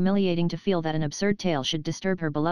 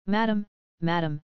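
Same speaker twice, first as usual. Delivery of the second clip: mildly anxious call; a touch of timid worry, understated; quiet, trembling. A narrator's reading. Frightened nurse approaching her mistress, softly anxious. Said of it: "said quietly, in a trembling voice".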